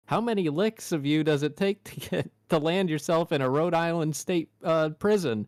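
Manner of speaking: ad parody. Retold or imitated. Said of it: "they did a commercial like that".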